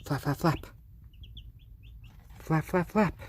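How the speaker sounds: 1 playful cheering. Real, not acted. Owner urging her chick to flap, rising playful.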